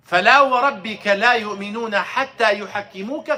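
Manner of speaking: fast, flowing chanted recitation of the verse; Quran recitation. Acted. Teacher reciting the verse to his class in Arabic, chanted. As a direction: recite the ayah in one rapid chanted breath.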